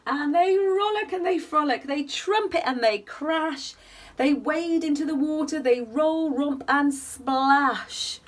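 gentle sing-song bedtime reading; cosy read-aloud storytelling; story narration. A narrator's reading. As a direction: read it like a rhyming picture book for little ones. Reading picture book aloud.

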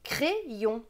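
"crayon" with a closed é, cré-yon; regional pronunciation. Shown as a demonstration. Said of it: "avec l'accent de ma région".

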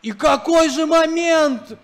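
slow, rising astonished build-up; excited. Real, not acted. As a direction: savour the moment, then the goal. Big moment, goal called. (восторженно, протяжно)

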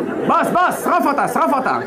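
high, eager sidekick voice; scheming adviser. Acted. Haman urges the king to burn her, high and eager. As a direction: urge the boss like a flattering sidekick.

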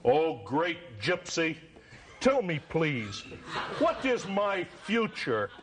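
very low, slow pleading voice; pleading customer. Acted. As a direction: beg the fortune teller in a deep voice. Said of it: "the fortune teller".

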